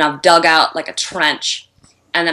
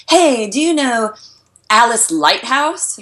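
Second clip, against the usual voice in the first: higher-pitched chirpy mock enquiry; raised voice for a retold query; retold friend's question; 6 semitones higher than usual. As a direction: act out a friend asking after someone. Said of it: "And I was like".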